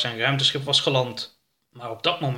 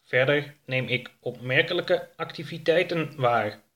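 the ship hints at strange activity below; spaceship computer. Acted. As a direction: let the words hang with a hint of mystery. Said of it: "waarna hij vervolgde".

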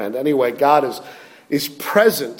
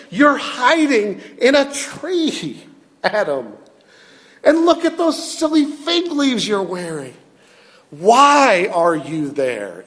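lightly voiced, patient and loving God, a touch higher; gentle wooing; 4 semitones higher than usual. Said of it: "graciously, wooing... patiently, lovingly".

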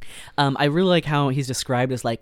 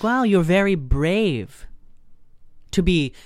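mock concern; 5 semitones higher, 3 dB louder, slower than usual. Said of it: "And he's like".

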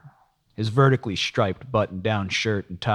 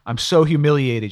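high distressed wail; 8 semitones higher, 8 dB louder than usual. A narrator's reading. Cheryl returns, repeating herself.

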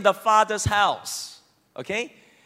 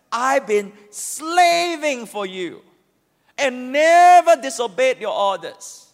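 resentful complaint. Acted. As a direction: drag out the grievance bitterly. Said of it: "dripping with resentment".

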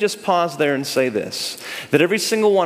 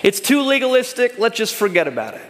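breezy, high and quick dismissal; mock casual shrug of a voice; dismissive; 6 semitones higher than usual. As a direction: toss the law aside lightly.

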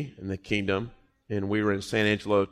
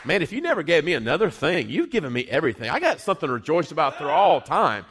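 joyful praise; 4 semitones higher than usual. Pretend. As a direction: burst out in delighted praise to God. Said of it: "you enter his courts and you say".

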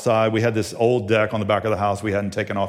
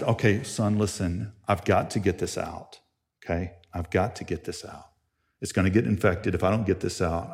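soft, low talk to his son; lowered, steadying parent voice; calm father; 4 semitones lower, 7 dB quieter than usual. Retold or imitated. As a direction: quietly reason with a frightened child.

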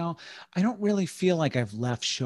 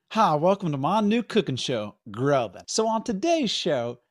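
host intro; 3 semitones higher than usual. Acted. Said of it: "That doesn't sound right either".

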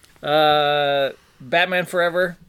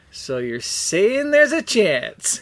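slow hopeful quote; 4 semitones higher, much slower than usual. Retold or imitated. Quoting favorite movie line.

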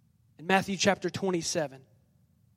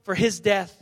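slightly raised, emphatic reply; mild crowd yell; 3 semitones higher than usual. Acted. The people answer Pilate, mildly yelled. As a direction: call it back as the people, half-shouted. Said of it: "all the people yelled back".

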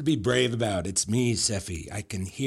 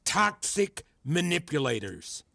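worked-up tirade; 12 semitones higher, 3 dB louder than usual. Acted. Mentor accusing student of expecting mind-reading, agitated tirade. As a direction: voice pitched way up in agitation.

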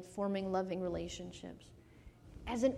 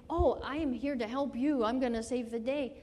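louder, hammed-up self-important announcement; mock rescuer; 3 semitones higher, 5 dB louder than usual. Speaker disowning a saviour attitude, mock-heroic. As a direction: play the would-be hero, a touch overdone.

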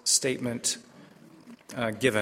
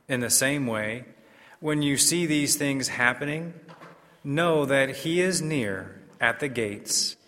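formal liturgical proclamation; measured, solemn scripture reading; Gospel reading. Acted.

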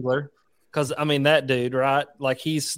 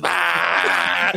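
blender noise; 3 semitones higher than usual. Retold or imitated. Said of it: "blender running in the background".

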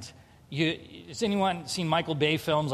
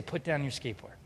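gentle; 4 semitones lower, 9 dB quieter than usual. Retold or imitated. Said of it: "He was gentle".

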